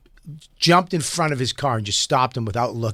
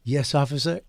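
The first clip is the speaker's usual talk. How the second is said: mock polite; 4 dB quieter than usual. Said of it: "He goes".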